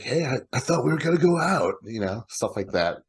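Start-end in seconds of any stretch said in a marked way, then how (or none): 0.0-1.7 imitated caller. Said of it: "In the first one, he's like".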